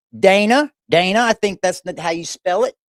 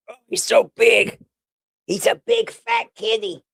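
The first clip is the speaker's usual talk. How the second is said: cooing at the cat; 3 semitones higher than usual. Real, not acted. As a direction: gush over the big cat.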